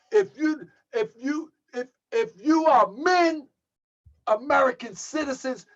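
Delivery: exhorting shout. Real, not acted. Preacher exhorting the congregation.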